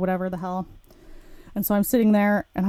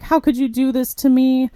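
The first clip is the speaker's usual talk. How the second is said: higher-pitched imitation of an upset man; plead, mimicking his wounded whine; mock tearful plea; 5 semitones higher, 4 dB louder than usual. Client to the woman cancelling their trip, mock tearful plea. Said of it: "This guy was crying".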